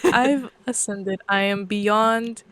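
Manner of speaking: slow, lofty transcendent being. Pretend. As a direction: speak slowly like an ascended cosmic entity. Playing ascended cosmic being.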